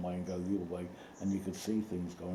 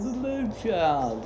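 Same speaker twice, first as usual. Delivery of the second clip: imitating Mountbatten; 13 semitones higher, 6 dB louder, slower than usual. Retells Mountbatten's greeting.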